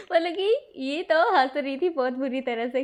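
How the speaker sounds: laughter in the voice; laughing. Real, not acted. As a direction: talk through a laugh. Narrator laughing while describing.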